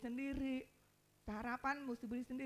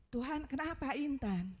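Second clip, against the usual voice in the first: raised pleading cry to God, lightly acted; retold anguished plea; 3 semitones higher, 5 dB louder than usual. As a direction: re-enact a wounded question to God.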